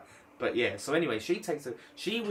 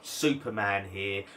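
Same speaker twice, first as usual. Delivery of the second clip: mock hero voice; slower than usual. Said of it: "he has to be the guy".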